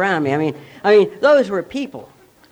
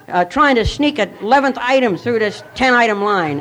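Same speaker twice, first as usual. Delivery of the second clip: raised, higher mock tirade; self-mocking outburst in the checkout line; retold scream at the clerk; 5 semitones higher than usual. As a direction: rant at the cashier, pitched up. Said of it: "I began to scream".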